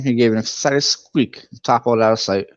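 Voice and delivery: ordinary delivery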